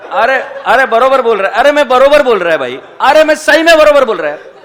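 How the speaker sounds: laughing protest. Real, not acted. Insisting he meant the horse.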